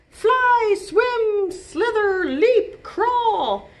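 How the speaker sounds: high, loud list of animal moves; high and loud, like wild animals at play; excited burst. A narrator's reading. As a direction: shout each move with excitement. Animals listed energetically.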